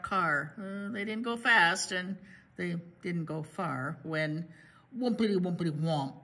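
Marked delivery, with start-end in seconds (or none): 5.0-6.1 imitated clunking. Imitates floor falling off.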